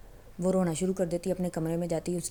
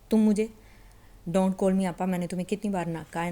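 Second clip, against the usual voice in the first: sharp, much louder rebuke; angry; 6 dB louder than usual. Acted. Girl angrily tells her admirer not to call her apa, loud angry rebuke. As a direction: snap at him to stop calling her apa. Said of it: "اس کو غصے میں کہتی ہے".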